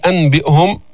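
"أنبئهم" keeping a clear n before b; without iqlab. Shown as a demonstration. Teacher repeating the error, "أنبئهم" with plain n. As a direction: sound it as written, an-bi'hum. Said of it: "ما أتينا بالإقلاب".

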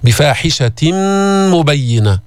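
بفاحشة مبينة linked by a long hummed m; merging with ghunna. Shown as a demonstration. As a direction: merge the tanween of بفاحشة into مبينة nasally. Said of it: "يعني إدغام بغنة". (بفاحشة مبينة بإدغام بغنة)

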